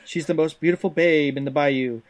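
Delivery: animated, swinging manual narration in a put-on accent; hammy storytelling read. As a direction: sell it like a hokey Southern narrator. Reads game text in character voice.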